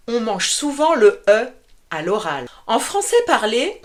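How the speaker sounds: ordinary talk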